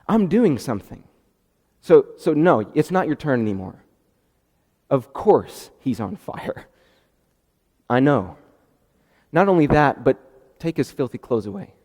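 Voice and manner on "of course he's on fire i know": ordinary talk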